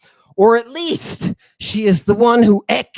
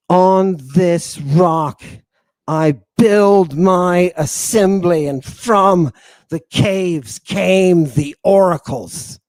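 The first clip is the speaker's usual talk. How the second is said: solemn declaimed reading; 4 dB louder, slower than usual. Acted. Reading the oracle's words aloud.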